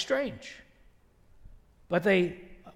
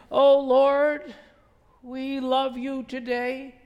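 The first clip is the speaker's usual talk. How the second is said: pompous mock prayer; 2 semitones higher, much slower than usual. Mocking a Pharisee's pompous prayer.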